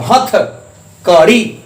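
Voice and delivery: हथ short, then कड़ी given the push on री; teacher stresses री in हथकड़ी. Shown as a demonstration. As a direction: split हथ and land the weight on कड़ी. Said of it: "री पर जोर दे रहे हैं".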